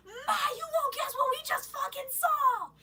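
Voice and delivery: very high, loud squeal; re-enacted frantic tattling to mom; excited blurting. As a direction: burst out with unbelievable news. Excitedly telling mom what they saw.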